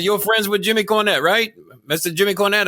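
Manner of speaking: high, questioning mock Japanese accent; fake Japanese accent. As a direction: ask it in a badly faked Japanese accent. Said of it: "fake Japanese accent".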